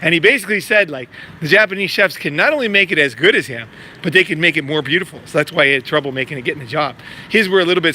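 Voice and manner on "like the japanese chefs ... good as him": ordinary talk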